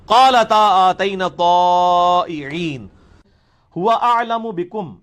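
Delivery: slow, drawn-out melodic tilawat; slow chanted Arabic recitation; Quran recitation. Acted. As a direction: recite it slowly like a qari.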